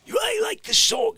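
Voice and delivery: loud mock protest; shout. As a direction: yell it down the line. Shouting at caller.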